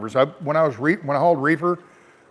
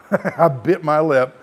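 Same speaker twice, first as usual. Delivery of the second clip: laughing; much slower than usual. Real, not acted.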